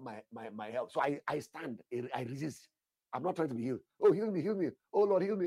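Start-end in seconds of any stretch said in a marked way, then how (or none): 4.0-5.5 high, loud begging "heal me"; mock pleading prayer. Pastor mocks a begging prayer, high and pleading. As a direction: imitate a desperate beggar's prayer. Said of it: "That prayer is not in all".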